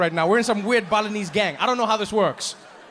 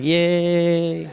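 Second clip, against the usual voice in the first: fake yay; 2 semitones lower than usual. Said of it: "I'm like".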